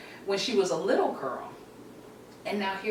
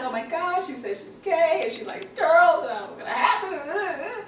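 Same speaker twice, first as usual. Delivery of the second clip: high-pitched mock-crying phone call; imitated tearful upset; 7 semitones higher than usual. Mother telling her girlfriend the news, imitated high tearful upset. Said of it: "I'm crying and I'm upset".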